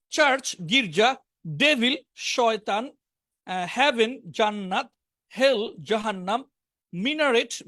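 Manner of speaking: each word projected on its own, with pauses; vocabulary drill. Shown as a demonstration. Teacher reading sports and business words to class, deliberate drill. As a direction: read out a word list for pupils to repeat.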